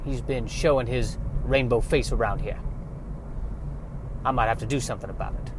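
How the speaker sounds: a soft, lightly Southern farm wife voice. Acted. Farm wife telling her husband about the unicorn, softly, in a light Southern accent. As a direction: hush it like a worried country wife, lightly Southern. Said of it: "has a southern bent".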